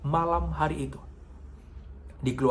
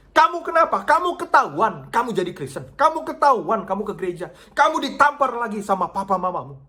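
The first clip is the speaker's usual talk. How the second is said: much higher and louder, rushed questions; alarmed worry; 7 semitones higher, 5 dB louder than usual. Retold or imitated. Pastor alarmed asking the girl what happened. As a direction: fear the worst for her.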